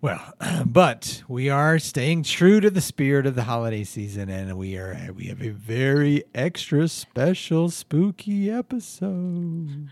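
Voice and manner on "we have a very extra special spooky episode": slow, drawn-out spooky announcement; spooky announcer. Acted. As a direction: stretch out the spooky words.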